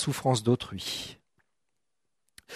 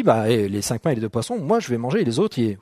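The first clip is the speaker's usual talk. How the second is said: low, quiet mock-selfish mutter of a boy keeping his lunch; a hint of a selfish teen brushing off the crowd; selfish inner voice; 4 semitones lower, 3 dB quieter than usual. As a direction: lightly play a stingy young man hoarding his bread. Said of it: "et moi je me dis".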